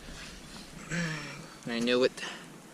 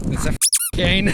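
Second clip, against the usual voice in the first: high insisting; 7 semitones higher, 5 dB louder than usual. Retold or imitated. Insisting to the cop, higher.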